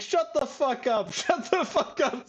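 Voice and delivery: high-pitched, drawn-out mock yell; retold shouting. Fan retelling a character silencing everyone in the restaurant, mock shouting. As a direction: imitate yelling down a whole room, slowly and high, without real volume. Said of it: "Dude, stop shouting".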